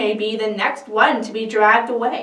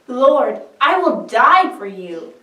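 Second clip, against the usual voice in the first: louder, insistent promise; fervent vow; 3 semitones higher, 7 dB louder than usual. Acted. Peter vows to Jesus, loud and insistent. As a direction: swear it with full conviction.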